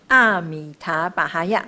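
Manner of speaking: 阿米塔巴哈呀 with weight on the opening 阿; stressed syllable. Shown as a demonstration. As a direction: lean on 阿 as you recite 阿米塔巴哈呀. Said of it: "所以在这里的时候就会重音".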